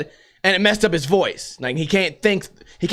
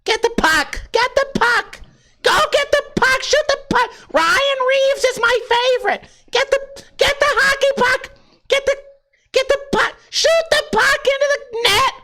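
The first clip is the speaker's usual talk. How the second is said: very high-pitched, put-on hockey fan voice; hockey fan caricature. Hockey fan yelling for the puck to be shot, very high mock voice. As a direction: urge the players on in a squeaky caricature.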